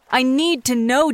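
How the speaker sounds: slow, pleading mock panic; fake hysteria. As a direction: drag out the need, playfully desperate. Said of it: "in mock hysteria".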